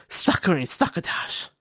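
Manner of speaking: parched, whispery croak from no water; dry-mouthed voice. Shown as a demonstration. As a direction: talk like your mouth is bone dry. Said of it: "Otherwise, you start talking like this".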